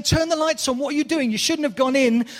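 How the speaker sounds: high, loud exasperated pleading; will them to flip the switch; scolding a horror film character through the screen; urging the TV. Pretend. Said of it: "you're saying".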